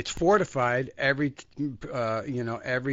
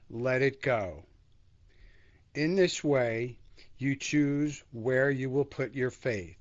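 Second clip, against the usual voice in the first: devotional reading. Acted. Teacher reading the passage to the group, solemn and measured. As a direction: read it like scripture, pausing between thoughts.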